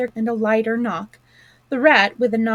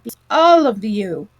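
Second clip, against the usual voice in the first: thin dry voice; 6 dB louder than usual. A narrator's reading. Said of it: "a thin, dry voice".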